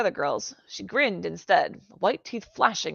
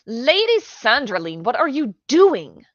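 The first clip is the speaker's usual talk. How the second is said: loud, slow and higher, scandalised; shocked outcry; 6 semitones higher, 10 dB louder, slower than usual. A narrator's reading. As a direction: call her back in disbelief. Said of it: "Lisa's voice cut through".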